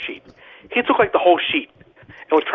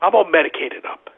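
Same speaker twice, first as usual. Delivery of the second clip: groggy Vandy; slower than usual. Retold or imitated. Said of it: "He goes".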